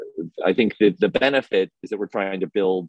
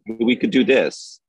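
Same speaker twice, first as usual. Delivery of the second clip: eager pitch; 5 semitones higher, 3 dB louder than usual. Retold or imitated. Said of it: "kind of dragging us in a direction and saying".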